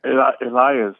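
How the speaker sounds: "Elias" said ee-LIE-us, middle syllable stressed; own name pronunciation. Shown as a demonstration. Caller telling host his name, "Elias" pronounced ee-LIE-us. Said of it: "How do you say it?".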